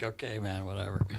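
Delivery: muttered dismissal. Retold or imitated. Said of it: "just like".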